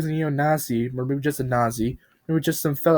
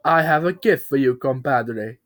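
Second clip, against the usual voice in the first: put-on faded British accent; 3 dB louder than usual. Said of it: "Bob said".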